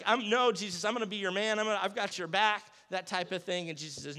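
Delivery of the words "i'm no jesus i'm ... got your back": insistent Peter. Retold or imitated. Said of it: "he's like".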